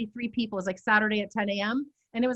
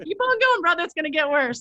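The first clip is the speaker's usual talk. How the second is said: teasing; 5 semitones higher than usual. Retold or imitated. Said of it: "I'm like".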